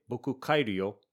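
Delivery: insistent, pressing on kaeru; emphatic, not happy. Shown as a demonstration. Unhappy guest insisting on going home, emphatic. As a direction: make it clear you're going home. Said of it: "Notice my tone of voice is a little different".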